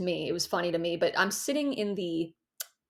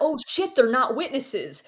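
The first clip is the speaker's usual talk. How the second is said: dismayed realization; 4 semitones higher than usual. Retold or imitated. Retold realization of mistake.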